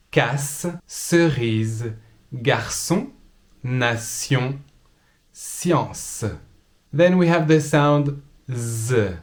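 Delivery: ça, cerise, zoo, examen said slowly; slow textbook pronunciation. Shown as a demonstration. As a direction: model S and Z words carefully. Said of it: "written with a T".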